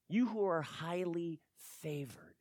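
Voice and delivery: "favored" dropped to a hushed whisper; whispered ending. Shown as a demonstration. Preacher repeating the greeting, trailing to a whisper. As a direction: let "favored" fade into a whisper. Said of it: "this idea of highly favored".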